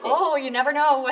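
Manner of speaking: a laughing, teasing reply. Real, not acted. Teasing about popping up live.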